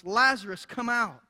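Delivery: loud, commanding call. Retold or imitated. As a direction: call out forcefully to summon someone. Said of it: "in a loud voice".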